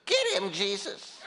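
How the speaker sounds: very high squawking parrot voice, breaking into a laugh; parrot's punchline, laughing. Acted. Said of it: "And the parrot says".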